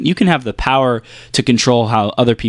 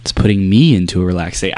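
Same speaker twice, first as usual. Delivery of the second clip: low, calm murmur; lower, lulled voice; relaxed; 5 semitones lower, faster than usual. Shown as a demonstration. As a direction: stay down in the relaxed low register. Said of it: "I start talking like that".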